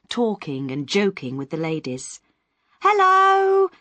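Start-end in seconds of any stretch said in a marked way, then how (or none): 2.8-3.7 friendly. Acted. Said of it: "in her friendly way".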